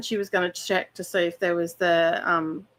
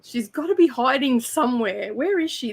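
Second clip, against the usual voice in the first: lightly voiced cat wondering aloud, higher; puzzled cat's thoughts; 4 semitones higher than usual. Friend imagines the cat hunting for the hidden speaker, lightly puzzled. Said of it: "He's probably thinking".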